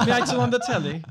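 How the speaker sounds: put-on high, loud, laughing British accent; mock British accent. Mocking British ghost stories, high laughing British accent. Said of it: "the British accent of a ghost story".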